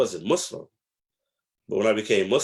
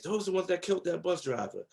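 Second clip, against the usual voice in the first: higher and softer, hushed grave warning; mother's warning; 7 semitones higher, 5 dB quieter, faster than usual. Retold or imitated. Mother warning her son about the Five Percent, hushed. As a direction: imitate mother's quiet dread. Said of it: "all she would tell me is".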